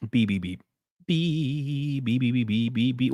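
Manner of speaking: string of mouth-made beeps; imitated beeping. Streamer filling time on his stream, playful beeping. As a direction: beep idly like a machine, one drawn out.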